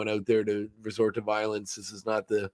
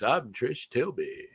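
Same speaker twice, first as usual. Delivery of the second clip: slow, drawn-out actorly announcement; put-on voice, lingering on each syllable; Matt Berry impression; 6 dB quieter, much slower than usual. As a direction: stretch out every word grandly. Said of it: "it sounds like him doing this voice".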